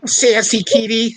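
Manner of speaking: high teasing pet voice; pet talk. Real, not acted. Owner talks to sassy kitty, high pet talk. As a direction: coo at the cat, pitched high.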